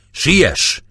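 high, loud call; urgent shout. A narrator's reading. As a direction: shout to hurry him along. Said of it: "kiáltotta Gergely".

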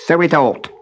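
gruff, scowling little man. A narrator's reading. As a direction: grumble it with a scowl. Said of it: "with a scowl".

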